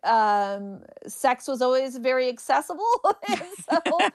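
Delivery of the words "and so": real burst of high laughter; laughing. Real, not acted. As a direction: laugh it off, pitched up. Laughing at her own remark.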